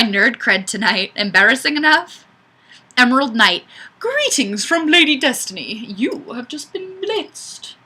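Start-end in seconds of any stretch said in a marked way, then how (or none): 4.0-7.7 posh greeting. Acted. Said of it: "I should have had my pinky up".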